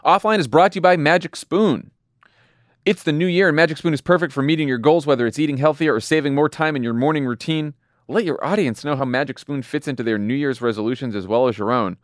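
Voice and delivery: cheerful podcast ad voice; ad read. Acted. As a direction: pitch the cereal like a host ad.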